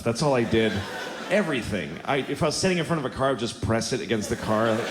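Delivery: ordinary delivery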